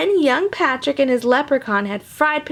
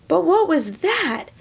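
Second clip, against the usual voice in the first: But what was that? asked higher, wondering; curious wonder; 4 semitones higher than usual. Shown as a demonstration. Reader rereads the line with wonder. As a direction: lift it with curiosity. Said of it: "Oops, sorry".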